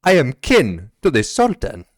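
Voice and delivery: indignant royal kin; haughty captain. Acted. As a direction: pull rank on him. Captain asserts rank.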